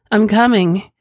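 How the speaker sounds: narrated scream. A narrator's reading. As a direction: raise it into an urgent acted cry.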